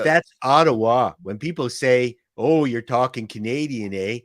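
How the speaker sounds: put-on Ottawa Canadian dialect; lightly hammed Ottawa talk, eh on the end; Ottawa accent. Shown as a demonstration. Comic explaining regional dialect, in an Ottawa Canadian accent. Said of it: "this thing I'm doing right now".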